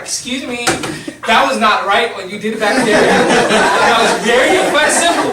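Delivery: prim, laughing retelling; half-laughing imitation of a timid rebuke; mock polite complaint. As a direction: play the giant scolding too politely. Huge guy's timid complaint, laughing.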